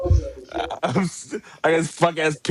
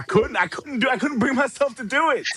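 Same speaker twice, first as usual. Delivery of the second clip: rising whine; 12 semitones higher, 3 dB quieter than usual. Real, not acted. Can't bring himself to hate him.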